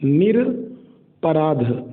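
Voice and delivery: निरपराध said slowly with no आ after र; slow pronunciation. Shown as a demonstration. Teacher slowly models निरपराध for spelling students. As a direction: draw out निरपराध as निर्-अप-राध. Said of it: "निरपराध होता है".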